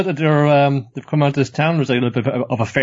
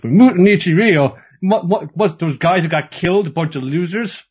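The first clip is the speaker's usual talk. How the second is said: high, mock-incredulous scoff, loud at first; scornful disbelief; 7 semitones higher, 3 dB louder than usual. Samurai hears the name of her dojo, acted scornful disbelief. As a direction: exclaim it like a sneering rival who can't believe it.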